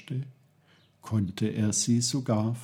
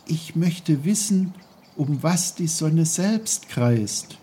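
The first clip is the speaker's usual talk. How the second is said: put-on curious boy Peter; 6 semitones higher than usual. A narrator's reading. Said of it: "dachte er bei sich".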